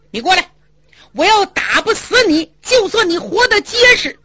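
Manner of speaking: high, gleeful threat of a brawl; cocky challenge. Acted. Red-faced man daring Hu Dahai to fight, cocky and high. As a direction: relish the coming fight.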